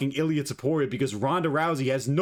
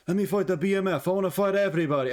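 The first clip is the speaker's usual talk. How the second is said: badly faked Australian accent, pitched up; mock a fighter with a hammed-up bad Australian accent; higher, botched Aussie accent; terrible Australian accent; 5 semitones higher, faster than usual. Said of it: "That was a terrible Australian accent".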